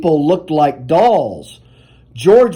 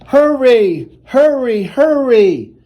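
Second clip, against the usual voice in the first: higher, pressing call to hurry; urgent firemen; 5 semitones higher than usual. Acted. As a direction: rush them out the door.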